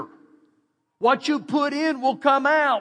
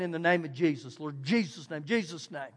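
low, soft urgent praying under the breath; hushed frantic prayer; 6 semitones lower, 6 dB quieter than usual. Retold or imitated. Man in a crashing car, hushed desperate prayer. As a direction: pray softly as the car slides toward the river. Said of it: "I start saying".

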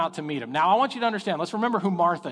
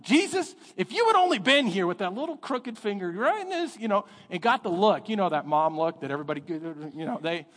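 scolding Martha; 5 semitones higher than usual. Retold or imitated. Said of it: "but I think".

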